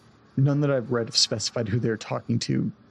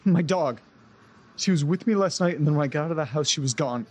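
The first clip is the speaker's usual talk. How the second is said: anxious rush about the missing dog; panicked worry; 3 semitones higher than usual. Acted. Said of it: "Take it easy, Nate. Relax".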